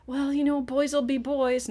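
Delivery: hammed-up shrugging parent, stretched out; mocking dismissive mom. Mom brushing off her son's behavior, mocked high and loud. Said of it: "she looked at me and she said".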